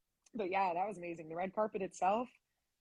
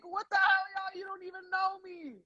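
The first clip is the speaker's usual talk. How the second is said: laughing disbelief; 11 semitones higher than usual. Real, not acted. Overwhelmed by screaming fans.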